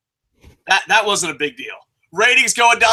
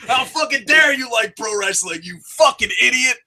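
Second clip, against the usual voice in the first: skit fan insult; 4 semitones higher than usual. Acted. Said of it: "reenact my skit".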